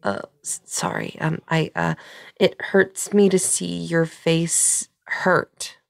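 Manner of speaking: flustered, stammering and restarting; tongue-tied and high-strung, drawing out the corrected phrase. Acted. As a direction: trip over the words, nervously correcting yourself. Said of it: "very high strung right now".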